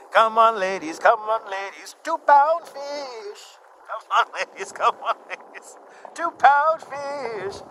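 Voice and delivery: high, stretched "two-pound fish" holler; market trader call. Retold or imitated. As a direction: hawk fish like a street vendor. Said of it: "market trader catchphrase meme".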